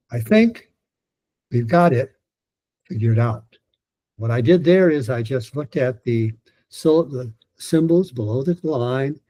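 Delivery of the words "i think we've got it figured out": broken into tapped groups. Shown as a demonstration. Coach demonstrating a reading drill, one phrase group at a time. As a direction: step down group by group, pausing between. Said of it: "light tap here, heavy tap here".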